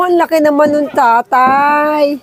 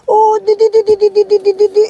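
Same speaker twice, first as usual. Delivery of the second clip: high coaxing call; 6 semitones higher, faster than usual. Real, not acted. Calling the goat to feed.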